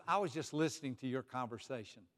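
slow, tender praise; Jesus voiced tenderly. Jesus praising a listener after church, slow and tender. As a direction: linger over each word with gentle admiration. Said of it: "he points to you and says".

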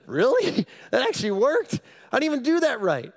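can't believe it worked; astonished. Retold or imitated. Astonished reaction.

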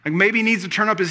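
mock them, stretching the words out; taunting. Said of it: "Elijah began to taunt them".

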